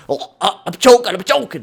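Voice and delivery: high mocking voice of a choking team; mocking whine. Gamer mocking his own team as chokers, whiny. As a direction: sneer it as a whiny quitter. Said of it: "you guys are fucking".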